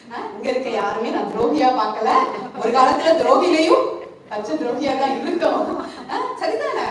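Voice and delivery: chuckling through the words, voice jumping up at the end; laughing. Real, not acted. Preacher laughing while teasing the congregation, laughing. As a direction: laugh along as you admit it to the church.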